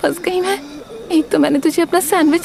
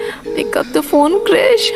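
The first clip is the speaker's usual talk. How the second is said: impatient plea; much slower than usual. Acted. Waiting for unanswered call.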